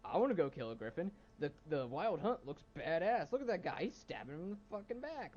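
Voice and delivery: retold hype, swooping up in pitch; excited fan reaction. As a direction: imitate an excited fan watching a trailer. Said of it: "I was like".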